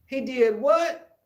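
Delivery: high, loud, slow, outraged "He did what?"; shocked aunt. Retold or imitated. Aunt outraged, hearing that the bully hit her nephew. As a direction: stretch it out in disbelief. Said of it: "And she said".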